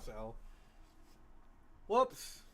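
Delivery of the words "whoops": mocking whoops. GM voices a mocking captor.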